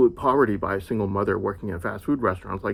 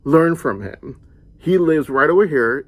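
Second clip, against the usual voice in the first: put-on louder, scolding dad telling his kids off; stern father lecturing; 4 semitones higher, 7 dB louder than usual. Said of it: "and he goes".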